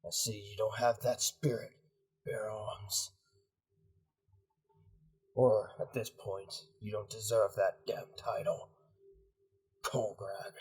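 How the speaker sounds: low, subdued commander's rebuke; disappointed commander. Acted. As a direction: coldly question your right hand's loyalty.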